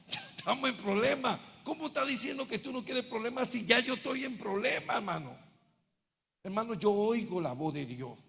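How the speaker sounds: normal talking voice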